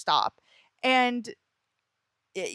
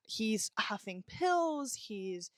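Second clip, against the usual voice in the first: hushed, slow whisper; much slower than usual. Real, not acted. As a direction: drop to a whisper, slowly. Whispered aside about ex's drugs.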